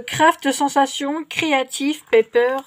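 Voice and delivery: English words with a French accent; bad English accent. Real, not acted. French vlogger naming a craft collection, poor English accent. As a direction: read the English name in clumsy Frenglish. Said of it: "mon accent anglais tout pourri".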